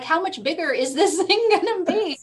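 high, laughing mock disbelief.

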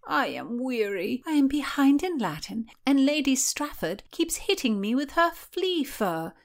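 put-on high petulant girl voice; high, complaining court lady. Mary's grievance speech.

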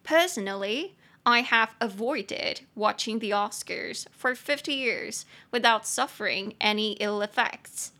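slow, careful English model sentence; slow English model reading. Shown as a demonstration. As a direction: read it slowly so learners can follow. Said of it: "这句话你就可以说".

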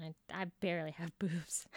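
unvoiced whisper. Real, not acted. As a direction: whisper it like a secret. Confessing in a whisper.

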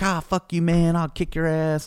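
high-pitched imitation of drunk bluster; mock threat. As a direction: mimic a rowdy guy picking a fight. Retelling drunk man's threat.

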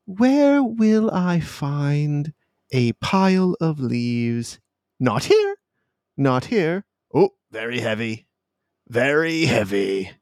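a hint of a scatterbrained voice, pitch jumping on not here; bonkers thoughts. GM voicing a confused stranger's thoughts, lightly daffy. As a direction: voice the muddled thoughts lightly, with a wild high leap. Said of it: "their thoughts are just bananas and bonkers".

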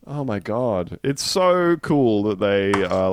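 ordinary talk, nothing marked

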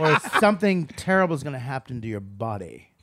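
understated, mock-harmless mobster; soft rehearsal delivery. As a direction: imitate an actor holding back the threat. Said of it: "But in rehearsals ... he would just go".

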